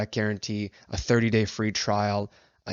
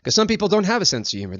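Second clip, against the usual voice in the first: ordinary talk, nothing marked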